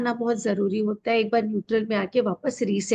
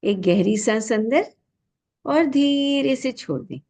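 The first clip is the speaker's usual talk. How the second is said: guided breath cue; 4 semitones higher than usual. Real, not acted. (धीमी, खिंची हुई ध्यान वाली आवाज़)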